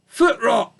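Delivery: put-on old ewe naming her sickness; ailing old ewe. Old sheep voice.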